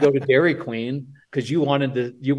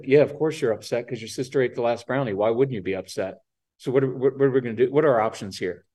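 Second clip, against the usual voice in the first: calm low tone; 4 semitones lower, faster than usual. Shown as a demonstration. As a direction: settle the kid like a late-night DJ. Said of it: "by just saying".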